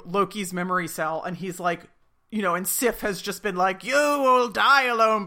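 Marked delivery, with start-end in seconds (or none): 3.8-5.2 slow, louder mock doom line; lightly voiced stern Sif; cold goddess. Sif walking out on Loki, mock doom.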